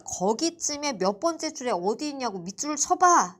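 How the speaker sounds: 높아진 목소리로 살짝 답답한 듯 따지기; 학생에게 따져 묻던 말을 힘주어 재연; 다그치는 선생님 재연. Retold or imitated. 학생을 다그친 말 재연. (다그치듯 높게)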